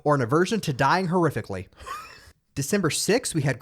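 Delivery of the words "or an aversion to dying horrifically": loud, high infomercial announcer. Pretend. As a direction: sell it like a cheesy ad. Mock ad for rocket shop.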